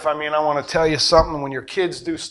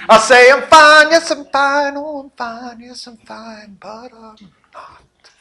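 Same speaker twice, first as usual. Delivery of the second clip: mock brave; 8 semitones higher, 8 dB louder, slower than usual.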